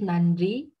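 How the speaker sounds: "난리" as nan-li, n and l kept apart; unnatural literal reading. Shown as a demonstration. Teacher showing what sounds unnatural, literal demo. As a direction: say "난리" stiffly, with the n before the l. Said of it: "ça sonne pas du tout naturel".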